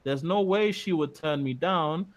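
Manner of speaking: building from a sly murmur to a high gloating voice; mock creepy schemer. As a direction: gloat like a cartoon creep, rising as it goes. Reading creep's plan in put-on voice.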